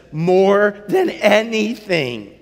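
earnest. Acted. Eustace answers the lion.

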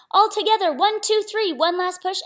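loud, high, building team push; rallying count. A narrator's reading. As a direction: count them in for one big heave.

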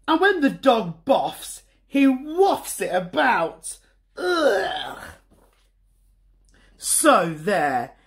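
a hint of a sulky little boy; sulky Bertie. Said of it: "thought Bertie".

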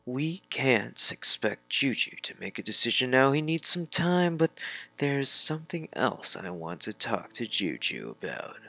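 a touch of pleading, pitch lifting midway; gently intervene in a lightly acted voice; lightly voiced game character. Character asking for time for Juju, lightly acted intervention.

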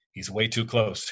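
speaking through clenched teeth; tight-jawed, words pushed through teeth. Acted. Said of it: "teeth clenched".

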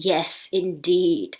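slow, low reply in a man's role; lightly voiced Will. Dog owner agreeing with the vet, lightly acted, slow and low. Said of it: "and said แล้วก็พูดว่า".

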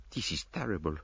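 soft dismayed French murmur. Acted. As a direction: murmur it under your breath, seasick. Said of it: "he murmured".

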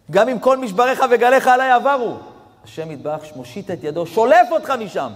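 loud, high sermon at full force; fiery preaching. Acted. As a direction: preach it out with fire, rising and pounding. Preaching about Elul. (דרשה סוערת בקול רם)

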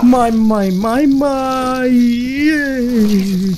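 high squeals of disgust, as if tickled; squeal, creeped out by bugs; being tickled. Real, not acted. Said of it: "Geli banget lu".

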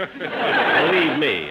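laughing. Real, not acted. Jack laughing at own joke.

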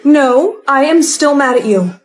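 angry. Acted. Refuses the boyfriend's gift.

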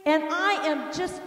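high, emphatic retold rant; furious. Wife fuming upstairs about leaving her husband, furious. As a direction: re-enact storming off in indignation. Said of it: "I am just furious, and I am angry".

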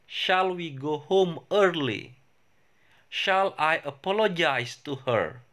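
careful classroom English, each sentence said for students to repeat; teacher modelling English for repetition; model pronunciation. Shown as a demonstration. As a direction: say it clearly so the class can copy you. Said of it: "saya akan ulang pengucapannya dan kalian silakan ikuti".

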